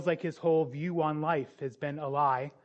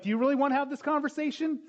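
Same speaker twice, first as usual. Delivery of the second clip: stern counselor; 10 semitones higher, 4 dB louder, faster than usual. Retold or imitated. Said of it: "And I'm like".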